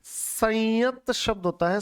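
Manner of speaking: संयत said slowly with a rising stress; slow emphatic correction. Shown as a demonstration. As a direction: linger on संयत to teach it. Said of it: "संयमित नहीं होता".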